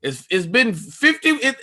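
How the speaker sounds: ordinary talk, nothing marked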